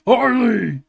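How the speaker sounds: loud gleeful call. Acted. Joker calling out to Harley, loud and delighted. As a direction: shout her name with delight.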